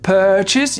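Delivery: "purchase" said with no audible R, British style; silent R. Shown as a demonstration. Teacher showing the R is not heard. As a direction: drop the R in "purchase". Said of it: "Ici, on n'entend pas le R".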